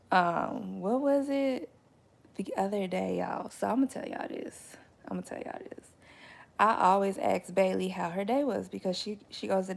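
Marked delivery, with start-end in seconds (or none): 3.5-4.8 whisper. Real, not acted. Conspiratorial aside to viewers. 5.1-5.9 whisper. Real, not acted. Repeated softer.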